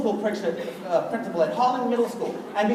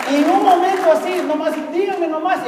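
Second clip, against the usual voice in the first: excited Spanish flourish; 5 semitones higher than usual. Acted. Shows off Spanish.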